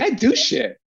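scornful, scoffing tone.

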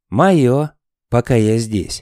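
casual, careless, offhand throwaway tone. Reading a story aloud, the narrator voices Snufkin answering Sniff: careless. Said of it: "небрежно ответил Снус".

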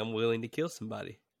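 ordinary delivery

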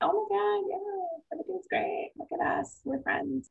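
very high, fake cheerful, gushing put-on happy tone. Retelling visits with an ex's disliked sisters-in-law: imitating a fake happy voice. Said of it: "put on my fake smile and my happy face".

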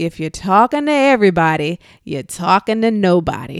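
put-on New Jersey accent. Speaker quoting Marie Forleo's advice to listeners, in a Marie Forleo impression. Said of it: "I'm trying to do her like New Jersey accent".

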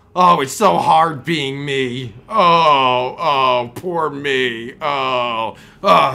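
loud, very slow, drawn-out oh's. Wrapping up the video, lapsing into sounding like Tuttle. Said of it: "I sounded like Tuttle for a second".

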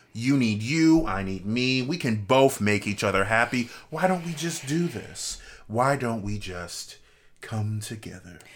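creepy, unsettling, skin-crawling delivery. Describing two sides getting back together, in a creepy tone. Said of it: "Why did my skin crawl when you said it like that".

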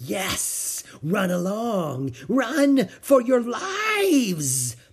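hoarse, raspy, hissing voice, swooping in pitch. Reading a story, a soothsayer warns two children in a raspy, hissing voice. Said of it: "came a raspy, hissing voice".

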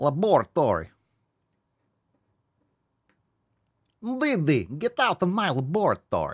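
high-pitched cartoon voice with swooping, swinging pitch. On a stream, speaker does a voice another person calls flawless; Dexter voice. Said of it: "I did not expect to hear a flawless Dexter".

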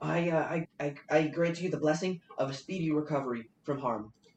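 little goblin voice, stammering. Narrator voices a character who draws a dagger and speaks: NPC voice. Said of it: "and he says".

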